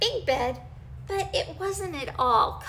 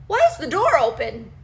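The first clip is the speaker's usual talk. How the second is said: deep gruff bear; 7 dB louder, faster than usual. Acted. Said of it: "Daddy Bear said in his deep, gruff voice".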